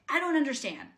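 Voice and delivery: retold outburst of bewildered frustration; frustrated. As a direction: demand answers in high-pitched, baffled frustration. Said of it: "like, getting frustrated".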